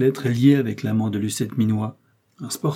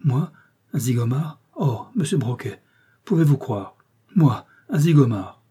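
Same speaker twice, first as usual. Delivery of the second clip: indignant fear; 2 semitones higher than usual. Acted. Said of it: "Fusil claqua des dents".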